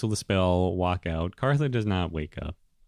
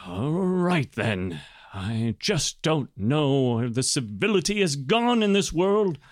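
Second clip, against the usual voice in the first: higher, clipped grumbling after a sigh; grudging restraint; 6 semitones higher than usual. Acted. Sergeant grudgingly telling the adventurer to find friends, restrained. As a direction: swallow your anger and bark orders. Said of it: "collects himself".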